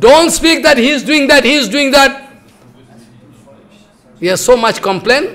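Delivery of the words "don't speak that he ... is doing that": raised, higher-pitched rebuke; retold scolding in a raised voice; angry guru. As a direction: scold the disciple for tattling. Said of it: "Guru Maharaj become very angry".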